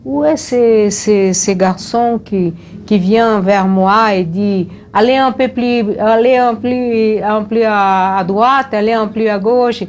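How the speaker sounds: voix de chef un peu plus aiguë, imitée; Vargas. Retold or imitated. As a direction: imiter le président qui réclame son photographe. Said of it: "il disait". (imitation légère de Vargas)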